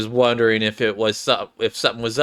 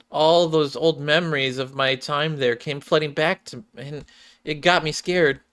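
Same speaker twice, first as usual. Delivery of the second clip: put-on a lightly higher, downcast shy girl; gently sad girl voice; sad Clay; 3 semitones higher than usual. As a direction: voice a shy girl confessing old shame. Clay recounting painful past.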